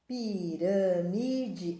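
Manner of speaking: "Pirâmide" said very slowly, pi-râ-mi-de, each syllable apart; teacher dictating "Pirâmide" slowly. Shown as a demonstration. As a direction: stretch "Pirâmide" out slowly so kids can write it. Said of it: "Aqui tem acento".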